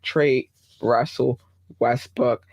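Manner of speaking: "Trade Russell Westbrook" said slowly, each word weighted; slow and firm on "Trade Russell Westbrook"; slow emphatic. Real, not acted. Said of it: "you should not do".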